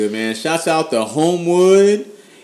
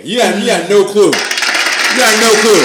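raised, emphatic gloating; fired-up fan; 4 semitones higher than usual. Real, not acted. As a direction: rave about your team, really fired up. Raving Bengals fan.

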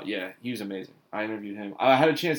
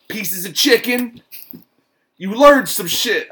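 slow, high, louder mock rapper drawl; imitating a rapper; 8 semitones higher, 9 dB louder, slower than usual. Imitating a rapper's interview wisdom, slow and high. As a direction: stretch it out like a rapper dropping wisdom. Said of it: "He's like".

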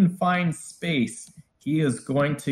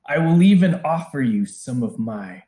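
commanding dragon bargaining from afar; a dragon bargaining from inside the tower; booming voice. Acted. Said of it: "he is speaking to you from inside the tower".

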